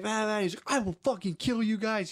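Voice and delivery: high-pitched mock threat; retold tantrum, voice jumping up; imitated spazzing out. Kid threatening the Jamaicans, mock spazzing out. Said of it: "He's spazzing out".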